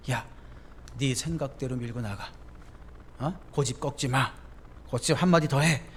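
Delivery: low, soft tempting devil; devil's voice. Retold or imitated. Preacher voicing the devil egging a believer on, low and sly. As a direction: coax them to dig in, lightly voiced. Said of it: "마귀의 음성들".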